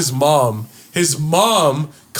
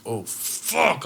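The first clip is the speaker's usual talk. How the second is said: hushed dread; 4 semitones lower, 7 dB quieter than usual. Retold or imitated. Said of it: "I was like".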